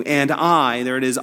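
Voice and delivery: I hit hard and held; emphatic I. Acted. Preacher quoting God's promise to clothe him, emphatic I. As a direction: put firm weight on I. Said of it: "the emphatic".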